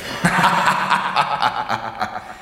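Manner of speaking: a short mocking laugh at the servant; scornful laugh. General director laughing off the servant's eagerness, scornful. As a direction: laugh down at his lackey.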